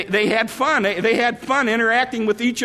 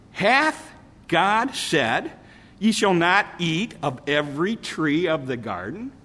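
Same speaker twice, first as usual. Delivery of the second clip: serpent's question; 4 semitones lower, 4 dB quieter than usual. Retold or imitated. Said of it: "Satan said".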